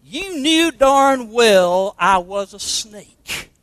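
the snake gloats at the dying woman; grinning snake. Acted. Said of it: "said the reptile with a grin".

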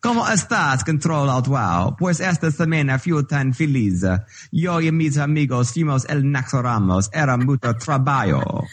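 Spanish read with a playful, hammed-up Italian accent. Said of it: "try to do Spanish in an Italian accent".

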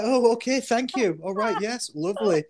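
high, giggly, overly polite thanks; high laughing fake gratitude; laughing mock politeness. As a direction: swallow the sting with a bright laugh. Mock polite reply to father.

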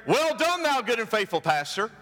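high rising Well done, repeated in list; lightly hammed-up divine greeting; mock heavenly praise. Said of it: "You're not gonna hear".

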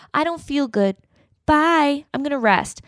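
cold brush-off, parodied; aloof. Retold or imitated.

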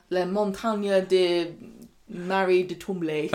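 halting mock French accent; French accent, feeling for the words; put-on French. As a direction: attempt a French place name, slowly. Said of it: "how do you say that in".

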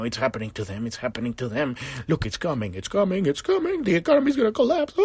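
spiral from muttered dread into shrill alarm; mock panic building. Fearful person panicking about doom.

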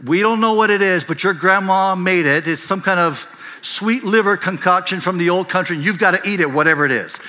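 high, loud coaxing parent voice; parent at Thanksgiving. Retold or imitated. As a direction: coax the kids like a pushy parent.

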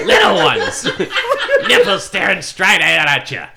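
manic Gottfried impression. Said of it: "It's gotta be more manic".

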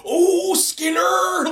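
high, long drawn-out exclamation; hammed-up flustered rebuke; mock exasperation. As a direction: draw out the name in cartoon outrage. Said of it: "it had that kind of attitude to it".

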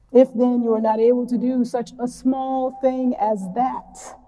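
unhurried reading of scripture to the congregation. Shown as a demonstration. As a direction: read the Gospel passage slowly and deliberately. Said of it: "I'm gonna read it pretty slowly".

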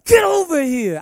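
sudden high, loud yell; harsh yell. Shown as a demonstration. Father yelling at his son the wrong way. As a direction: bark it at him much too hard. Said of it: "I wouldn't talk to him like that".

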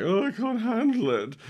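very high, hammed-up panicky wail; comic falsetto meltdown; mock nervous breakdown. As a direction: squeal it like someone falling to pieces. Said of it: "like, a nervous breakdown".

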